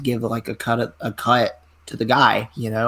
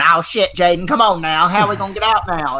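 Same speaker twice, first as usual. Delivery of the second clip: panicked promoter, higher and louder; mock-frantic, raised-voice urging; imitated freaking out; 7 semitones higher, 4 dB louder than usual. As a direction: act out a flustered promoter in a panic. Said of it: "I was freaking out".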